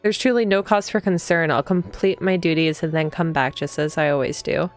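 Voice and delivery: even, slightly low storytelling read; read-aloud narration. A narrator's reading. Player reading the heroine's morning greeting aloud, even narration. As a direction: read the game text evenly, unhurried.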